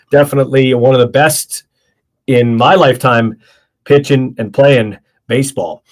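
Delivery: tired, talking through a yawn; drowsy words stretched by a yawn. Real, not acted. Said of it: "Sorry, I'm yawning a bit here".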